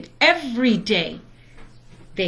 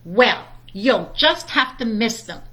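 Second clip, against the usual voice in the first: firm. Acted. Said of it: "said Mama firmly".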